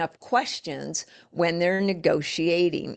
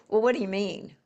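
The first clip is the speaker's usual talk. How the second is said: a challenging "what do you mean"; confrontational; 3 semitones higher, faster than usual. Shown as a demonstration. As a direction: push back as if confronting them. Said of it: "That's like confront".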